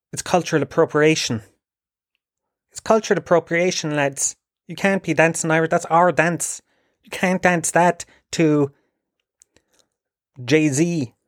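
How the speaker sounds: mock outraged nationalist. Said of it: "People are going".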